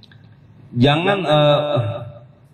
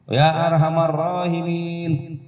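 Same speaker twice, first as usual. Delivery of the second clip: drawn-out bilal call; 5 semitones higher than usual. Retold or imitated. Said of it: "Bilal ngomong".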